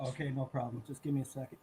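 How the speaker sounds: distant, quiet off-mic speech; far from mic. Real, not acted. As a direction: talk well back from the mic. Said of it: "Sounds like you're far away from your mic".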